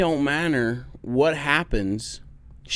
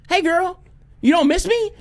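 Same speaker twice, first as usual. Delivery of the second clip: mock hurt pleading; 5 dB louder than usual. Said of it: "I'm like".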